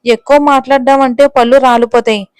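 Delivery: a touch of threat, through clenched teeth; mildly voiced warning to back off; understated gritted-teeth threat. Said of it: "పొళ్ళు కొరుకుతూ చెప్పింది".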